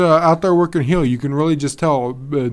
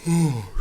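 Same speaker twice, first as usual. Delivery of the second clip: yawning sigh; 2 semitones higher, 7 dB quieter than usual. Real, not acted. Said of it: "sorry about that".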